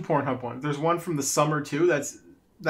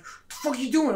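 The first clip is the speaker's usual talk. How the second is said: dad yelling; 7 semitones higher than usual. Retold or imitated. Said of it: "my dad yelled at me".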